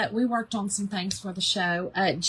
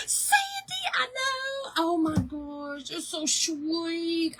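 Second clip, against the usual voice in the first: gasping and choked up, voice pitched up, slowing down; real tearful gasp of thanks to a viewer; touched, near tears; 6 semitones higher, much slower than usual. Real, not acted. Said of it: "Girl, don't make me cry".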